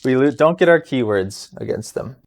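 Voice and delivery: ordinary talk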